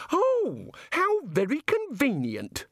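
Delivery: high, slow delight; airy, pleased exclamation; happy. Acted. God learning of the female, happily delighted. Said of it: "The god smiled happily".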